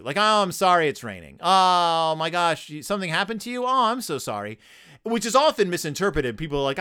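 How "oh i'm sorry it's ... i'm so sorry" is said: sympathetic. Acted. Host shows sorry said to sympathize, sympathetic. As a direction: gush with concern, lightly acted. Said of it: "Sorry can mean that I sympathize with you".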